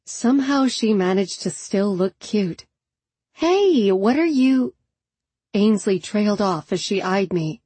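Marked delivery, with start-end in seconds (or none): 3.3-4.7 higher, startled greeting; a jump of surprise at the door; surprised. A narrator's reading.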